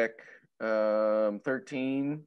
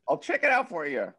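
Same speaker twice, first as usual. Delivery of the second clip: normal speaking voice; 8 semitones higher, 4 dB louder than usual. Acted. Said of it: "And I'll say".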